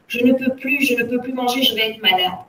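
put-on loud child's plea; exclaimed complaint. A narrator's reading. Gamin giving up on the cake, loud exclamation. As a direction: cry out that you give up. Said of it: "de s'écrier".

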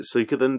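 Suikoden with "soo" at the front, as in suika; Suikoden as Soo-ee-koden. Shown as a demonstration. Co-host justifies their pronunciation, Suikoden as Soo-ee-koden. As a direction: say Suikoden from the Japanese word suika. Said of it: "I've always pronounced it".

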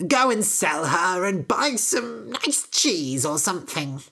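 unvoiced conspiratorial whisper. Mother whispering to Jack to buy cheese. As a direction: breathe it like a secret aside.

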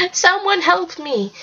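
slow, high plea for help; drawn-out cry, volume held back; high-pitched scream. A narrator's reading. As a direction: draw out a high cry for rescue. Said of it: "heard a high-pitched scream".

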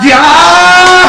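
long high whoop of delight; drawn-out cheer. Real, not acted. Cheering the new announcer.

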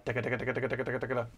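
imitated tremolo. Shown as a demonstration. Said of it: "which is like a".

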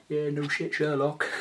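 high, sarcastic jab. Pretend. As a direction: say it like it's obvious, mockingly. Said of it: "you'll be all like".

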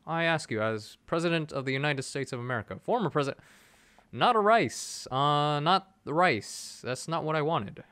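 a hint of a presidential speech voice, lightly done; hammed-up statesman cadence, barely shifted; bad Barack Obama impression. Gamer pleading with the developers in a mild Obama voice. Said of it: "I'm doing a really bad Barack Obama impression".

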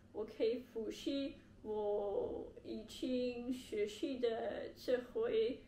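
ordinary talk, nothing marked

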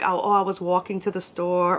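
New York vowels on "walking" and "store"; New York accent. Shown as a demonstration. Showing how she sounds with friends, New York accent. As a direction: let some New York slip out. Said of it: "I don't really talk like that".

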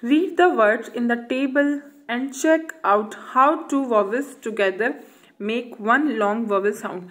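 slow, clear reading of an instruction. Acted. Teacher reading the book's instruction aloud slowly. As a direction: spell out the task slowly.

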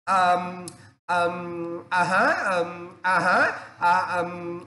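lazy fillers ờm and à há; slow mock ờm à há; mock hesitation. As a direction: stall like a stuck student. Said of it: "em cứ ngồi".

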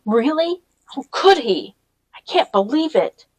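can't take in the betrayal; stunned disbelief. A narrator's reading. Girl stunned by news of Tick's betrayal, disbelieving.

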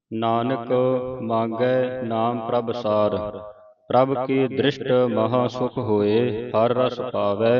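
slow, drawn-out reading of verse; scripture recitation. Acted. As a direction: recite it slowly, word by word. (ਧੀਮਾ ਗੁਰਬਾਣੀ ਪਾਠ)

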